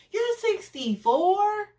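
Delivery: high, slow, disbelieving question; stunned repeat. Retold or imitated. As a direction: lean on you're in shock. Repeating his age, stunned.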